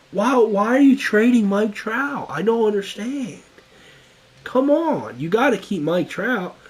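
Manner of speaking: put-on imagined viewer whining in a light southern accent; mock southern accent. Viewer pleading to keep Mike Trout, in a mock southern accent. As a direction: play the upset fan in a put-on southern accent. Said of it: "I don't know why you have a southern accent".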